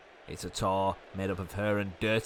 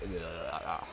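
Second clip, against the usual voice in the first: low, soft groan from the throat; demonstrated throaty groan; throat noise; 5 semitones lower, 8 dB quieter than usual. Shown as a demonstration. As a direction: imitate a worn-out throat with a quiet "ugh". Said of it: "throat's like".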